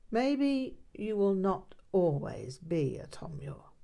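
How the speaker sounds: breathy whisper, voice dropped away; hushed whisper. Acted. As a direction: let it slip out as a private whisper. Teacher drops to a hush.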